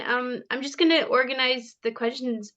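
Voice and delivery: hoarse, voice giving out; losing voice. Real, not acted. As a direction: talk through a failing voice. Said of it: "Sorry, I'm losing my voice".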